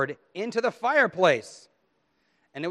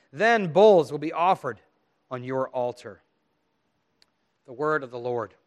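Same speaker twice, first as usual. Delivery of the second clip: solemn public psalm reading; measured reading with key words pressed, phrase endings falling; scripture reading; 3 dB louder than usual. Acted. Pastor reads a penitential psalm to the congregation, solemn scripture reading.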